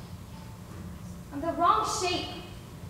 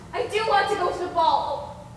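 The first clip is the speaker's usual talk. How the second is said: near tears; 3 semitones higher than usual. Acted. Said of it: "I'm going to cry. I'm even getting angry".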